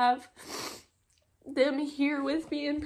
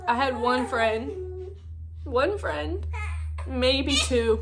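slow, choked-up words; fighting back a sob; tearful; 2 semitones higher, 4 dB louder, much slower than usual. Real, not acted. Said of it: "this makes me so sad".

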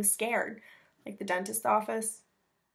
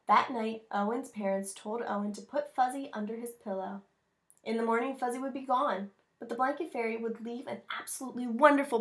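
put-on reading to children; 2 semitones higher than usual. Reads picture book aloud.

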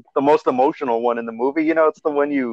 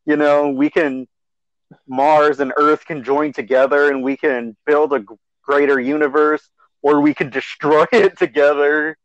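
epic speech. Retold or imitated. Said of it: "his epic speech".

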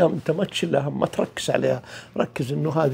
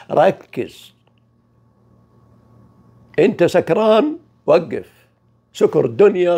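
firm command; 4 semitones higher, 6 dB louder, slower than usual. Retold or imitated. Voicing God's command to focus.

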